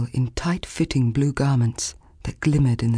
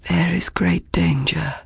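slow, croaking whispered warning; croaked whisper; 4 semitones higher than usual. A narrator's reading. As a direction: croak it out through a sore throat. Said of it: "croaked the Maris man".

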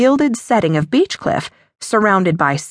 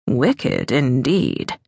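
lower, softer menacing drawl; a lower voice for the rogue viscount; dark pirate; 6 semitones lower, 3 dB quieter, much slower than usual. A narrator's reading. Viscount teasing the matron, low and dangerous. Raveneau answers Hermione darkly.

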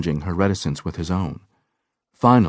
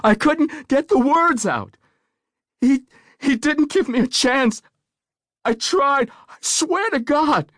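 put-on much higher, slow, desperate and childlike pleading; voice soaring; 3 dB louder than usual. A narrator's reading. Woman insisting to the doctor she tried, voice soaring. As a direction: her voice soaring as she begs to be believed. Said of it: "her voice soaring".

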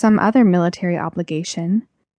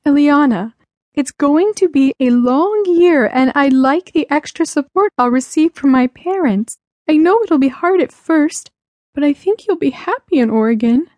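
higher, pleading mother's voice; mildly sobbing mother; 7 semitones higher than usual. Acted. Mother explaining the move to her child, mildly tearful. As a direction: plead through a touch of tears. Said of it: "Mom sobbed".

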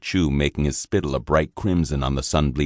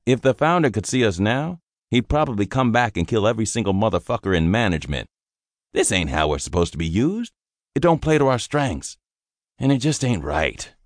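higher, heated grumbling that winds down; fed-up sergeant; 7 semitones higher than usual. Acted. Sergeant telling the private the founder would be furious, bitter. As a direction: complain hotly about the founder. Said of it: "he sighed".

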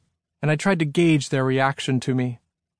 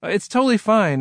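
quick; 7 semitones higher than usual. A narrator's reading. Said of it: "I said quickly".

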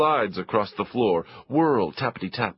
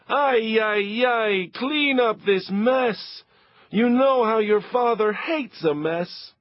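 frantic mother; 12 semitones higher, slower than usual. Acted. Mother urging the kids to clean, high and frantic. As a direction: rush them before Papa comes.

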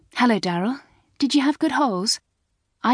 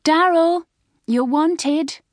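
high, loud call to a friend; singing-out high yell; shouting; 11 semitones higher, 4 dB louder, much slower than usual. A narrator's reading. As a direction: summon someone across a crowd. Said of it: "shouted Sally".

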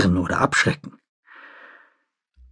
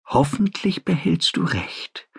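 doubtful; 5 semitones higher, 5 dB quieter than usual. A narrator's reading. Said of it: "Zweifelnd sah Charon".

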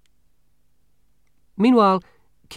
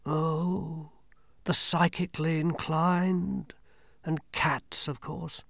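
grim reaper voice; 5 semitones higher, 5 dB quieter, slower than usual. Acted. Death speaks.

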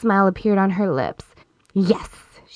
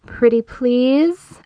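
slow, coy pleading; 4 semitones higher, much slower than usual. Acted. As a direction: beg sweetly and slowly. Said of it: "I pleaded".

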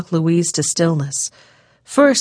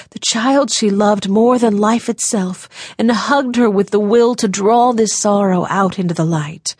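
usual speaking voice

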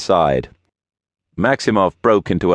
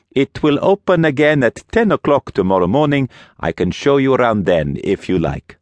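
put-on higher, accented priest voice; priest character; 7 semitones higher than usual. A narrator's reading. Priest turns late visitors away at the door, higher character voice. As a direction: politely put them off, pitched up.

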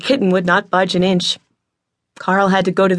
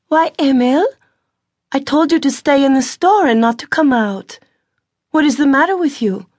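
higher, worried big sister gently scolding; a young woman chiding her little brother, concerned; older sister, anxious and scolding; Alexandra's voice; 9 semitones higher, 3 dB louder than usual. A narrator's reading.

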